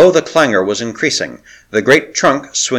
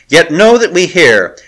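threatening proclamation; 4 semitones higher, 5 dB louder than usual. Acted. Priestess threatens the besieged.

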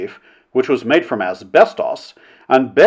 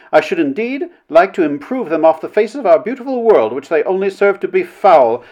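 raised, emphatic denunciation; scornful committee orator; vehement Mrs. Blank; 6 semitones higher, 3 dB louder than usual. A narrator's reading. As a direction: build to a high, forceful verdict.

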